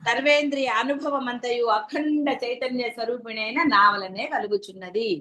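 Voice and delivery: scripture recitation. Acted. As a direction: recite the text with reverence. Quoting scripture again.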